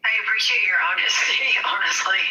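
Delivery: stuffy, congested voice; stuffed up from allergies; blocked nose. Real, not acted. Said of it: "I probably sound like a fucking robot".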